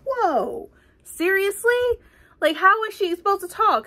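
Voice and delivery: high, loud outraged disbelief; real indignation. Real, not acted. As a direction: let the anger spill out in disbelief. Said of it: "I got so pissed in that part".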